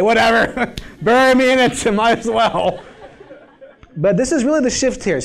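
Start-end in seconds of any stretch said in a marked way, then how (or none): 0.0-2.8 higher, louder, laughing through the words; joking quote broken by chuckles; mock resignation. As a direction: toss it off with a laugh, pitched up. Jokey quote of the actor's resignation.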